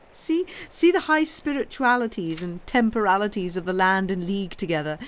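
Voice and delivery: mock the ladies in league; mocking Signora. Signora mocks the two ladies.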